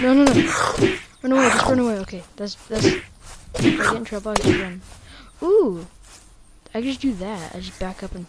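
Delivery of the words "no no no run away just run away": panicked. Real, not acted. Danger in game.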